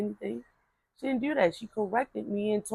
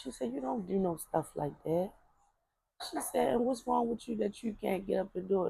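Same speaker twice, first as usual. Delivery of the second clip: softer, firm grandmotherly correction; grandma's scolding; 7 dB quieter than usual. Retold or imitated. Grandma correcting a bossy granddaughter, quiet and firm. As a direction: scold gently but firmly, voice kept down.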